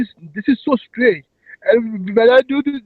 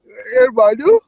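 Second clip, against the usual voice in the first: crying voice. Shown as a demonstration. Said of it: "this crying voice".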